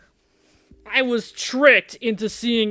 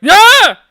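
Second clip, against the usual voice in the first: full, much higher and louder scream; proper loud scream; 13 semitones higher, 16 dB louder than usual. Shown as a demonstration. Showing Damien how to really scream, full loud scream. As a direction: let out a real horror-movie scream. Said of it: "you gotta go like".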